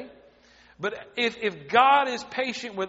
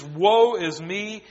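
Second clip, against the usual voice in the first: mopey Eeyore moan; 5 dB louder, much slower than usual. Pretend. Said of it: "and be an Eeyore".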